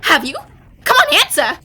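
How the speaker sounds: impatient demand. Acted. Pressing reluctant witness for answer.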